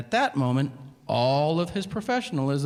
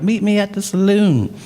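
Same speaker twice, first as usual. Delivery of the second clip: cowboy challenge; 6 semitones higher, 6 dB louder than usual. Acted. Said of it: "be like".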